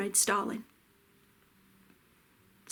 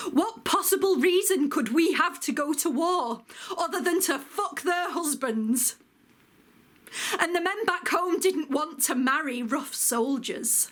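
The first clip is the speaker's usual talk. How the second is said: higher-pitched, bitter indignation; indignant; 5 semitones higher than usual. Acted. Woman veteran recounting scorn back home, indignant. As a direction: throw the insult back, pitched up.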